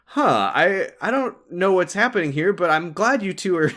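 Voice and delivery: high, flustered voice breaking into laughs; awkward nervous laugh through the words. Retold or imitated. Awkward Victor caught between them.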